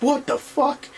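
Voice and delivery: a high, startled yelp of a curse; shocked curse. Retold or imitated. Durant crushed by the robot, a high startled curse. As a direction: shriek it as he gets crushed. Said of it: "He's like".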